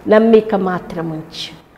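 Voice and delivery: slow, steady, reassuring words; slow gentle assurance. Retold or imitated. Jesus slowly reassuring Jairus, calm and steady. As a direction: say it slowly to calm a frightened father. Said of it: "యేసే అంటున్నాడు".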